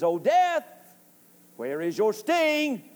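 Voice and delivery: emphatic taunt, slow on the question; taunting Death. Acted. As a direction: challenge Death with a drawn-out question. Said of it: "He is taunting death".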